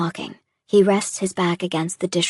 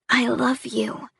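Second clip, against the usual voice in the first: slow, tender, higher reassurance; comforting; 5 semitones higher, slower than usual. Acted. She comforts her upset partner, slow tender I love you. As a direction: say it slowly to soothe him. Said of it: "trying to calm him down".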